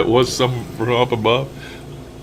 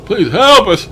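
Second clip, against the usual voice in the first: much higher, a pleading plea; high pleading spirit voice; 8 semitones higher, slower than usual. Retold or imitated. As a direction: lift it up high, begging for help. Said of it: "see how much different the voices are".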